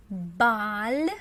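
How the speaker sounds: "Большой" split loud and slow as BAL... SHOY; slow demonstration. Shown as a demonstration. Teacher giving the answer after learners try, "Большой" slowly as bal-SHOY. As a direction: sound out "Большой" by syllables with A for O. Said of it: "Try to read it without me".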